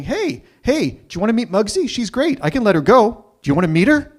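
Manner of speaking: fake friendly threat. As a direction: sweetly dare him while holding back the dog. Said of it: "I'm saying".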